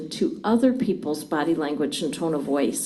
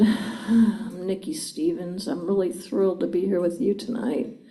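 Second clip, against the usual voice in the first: unenthused. Shown as a demonstration. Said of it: "would you have believed me".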